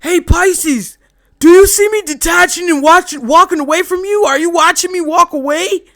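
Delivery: loud, high fake whisper that is really a call; mock stage whisper. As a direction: whisper so loudly they are sure to hear. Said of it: "whispering extra loud".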